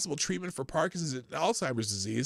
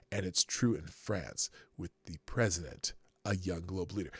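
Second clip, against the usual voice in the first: put-on low, measured German accent; 8 semitones lower, 3 dB quieter than usual. Host rereading Schwab on young leaders, low German accent. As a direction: impersonate a German official, pitched down. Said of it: "my best German accent".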